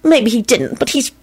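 slow, high-pitched insistence; concede, then insist firmly; drawn-out adamant claim. A narrator's reading. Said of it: "Solange stated adamantly".

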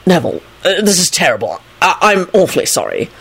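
hesitant, concerned apology; a touch of awkward concern. A narrator's reading. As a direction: apologise haltingly, with mild worry. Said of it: "said in a concerned voice".

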